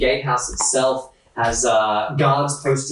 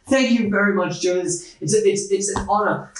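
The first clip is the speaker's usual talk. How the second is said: put-on higher-pitched, humbly grateful old man voice; 6 semitones higher than usual. Old man thanking Joe for signing his dagger, grateful. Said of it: "He goes".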